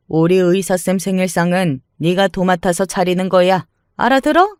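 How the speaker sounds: put-on domineering older woman, scornful and bossy; sneering mother-in-law. Mother-in-law ordering her to cook the birthday meal, sneering. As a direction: belittle her trip, then lay down the law.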